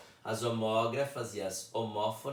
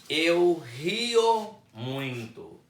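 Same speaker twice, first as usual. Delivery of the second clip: slow, louder, higher demo sentence; a teacher's slow model sentence; 5 semitones higher, 7 dB louder, much slower than usual. Shown as a demonstration. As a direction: spell the example out word by word.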